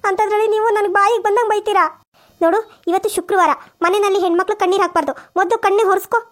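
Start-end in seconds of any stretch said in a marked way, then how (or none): 0.0-1.8 higher, whining complaint to the mother-in-law; wounded daughter-in-law whining; hurt protest. Acted. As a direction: plead that her effort was unfair to scold.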